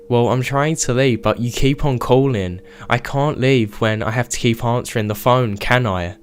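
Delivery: put-on light stereotypical Canadian accent. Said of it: "in a stereotypical Canadian accent".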